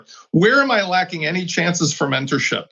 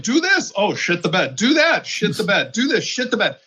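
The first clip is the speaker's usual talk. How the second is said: 1 mock quote of Jason's advice; 4 semitones higher than usual. Mocking Jason's flip-flopping advice.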